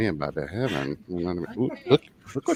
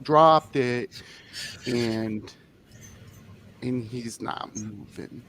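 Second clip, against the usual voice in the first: put-on lightly raised, halting little-kid voice; childlike ogre; 3 semitones higher than usual. Todd explains to the group in a halting kid voice. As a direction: stammer like an eight-year-old in a big body. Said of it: "Todd's up here".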